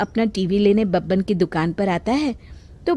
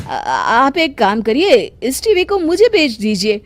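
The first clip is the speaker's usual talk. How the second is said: greedy; 4 dB louder than usual. Acted. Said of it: "Babban के मन में लालच आ जाता है".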